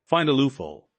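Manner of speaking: a loud, high roar. A narrator's reading. Furious CEO roaring at his lawyers. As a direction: roar the order, pitch shooting up. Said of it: "Julian roared".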